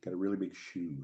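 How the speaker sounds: bad, lightly voiced TV host impression; a hint of show-host mimicry; Ed Sullivan. Asking co-host who this is, lightly put-on impression. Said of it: "It was a very bad impression".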